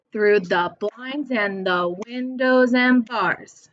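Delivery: slow beat on BLINDS, WINDOWS, BARS; sing-song scanning with three stresses; stressed syllables marked. Shown as a demonstration. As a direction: chant it slowly, leaning on "blinds", "windows" and "bars". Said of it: "So there's three".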